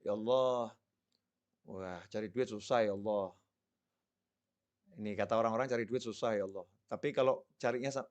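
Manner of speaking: soft, low, coaxing plea to God; pampered pleading prayer. Acted. Preacher acting a believer coaxing God for money, soft and low. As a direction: sweet-talk God quietly like a spoiled child. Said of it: "tinggal kita bermanja-manja sama Allah".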